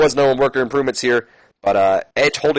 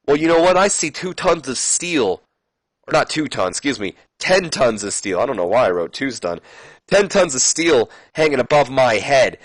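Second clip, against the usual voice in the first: Edge's challenge; 3 semitones higher than usual. Acted. Edge daring the champ to fight tonight, mildly heated. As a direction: push the dare home, building. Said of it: "And then Edge says".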